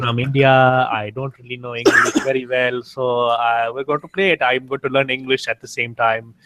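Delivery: hint of a hammed-up Indian accent as a gaming host, unhurried; old fake Indian accent. Streamer redoes his old channel intro in a light Indian accent. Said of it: "I, like, talked like this".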